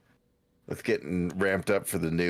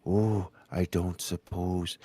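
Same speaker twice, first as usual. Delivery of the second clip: put-on low old man voice; 3 semitones lower, slower than usual. Shown as a demonstration. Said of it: "Then you go a little".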